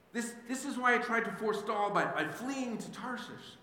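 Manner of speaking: hint of an indignant prophet; mild angry prayer. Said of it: "he prayed out loud to the Lord".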